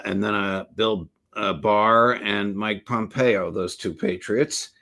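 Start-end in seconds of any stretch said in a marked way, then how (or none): 3.5-4.7 slow, dryly sarcastic praise. Real, not acted. Host naming two officials who blocked a pardon, sarcastic. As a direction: draw it out with dry sarcasm. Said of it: "I say that sarcastically".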